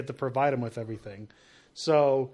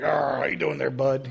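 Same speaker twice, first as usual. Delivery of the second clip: pirate voice; 3 semitones lower than usual. Retold or imitated. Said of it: "he sounded like a pirate".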